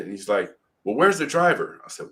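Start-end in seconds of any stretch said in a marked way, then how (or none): 0.8-1.8 high-pitched urgent question, retold; frantic. Frantic man searching for the driver, retold as urgent. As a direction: imitate a frantic bystander's question. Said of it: "running around frantically".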